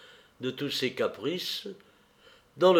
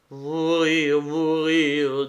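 desperate cry; 5 semitones higher, 5 dB louder, much slower than usual. A narrator's reading. Nero panics like trapped beast.

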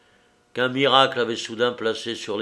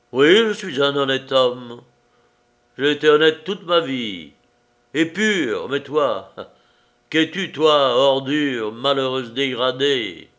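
proud scorn; 3 semitones higher, 5 dB louder than usual. Acted. Man proudly insulting her.

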